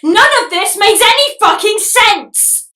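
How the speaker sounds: loud, slow, fed-up outburst; exasperated shout. Real, not acted. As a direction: throw up your hands and yell it slowly. Outburst at the absurd plot.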